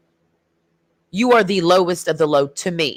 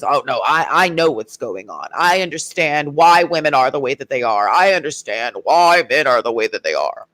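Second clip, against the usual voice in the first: mock know-it-all; 5 semitones lower than usual. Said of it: "He was".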